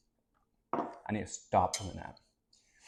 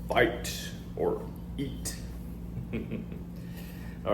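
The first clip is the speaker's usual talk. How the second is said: slow whispered hype; whispering; 5 dB quieter, much slower than usual. Acted. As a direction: whisper it like a secret. Whispered round two announcement.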